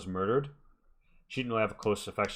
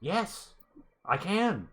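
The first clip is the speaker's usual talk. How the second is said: higher and louder, heated insistence; indignant outburst; 8 semitones higher, 6 dB louder than usual. Acted. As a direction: fire it back, offended. NPC snaps back defending accusation.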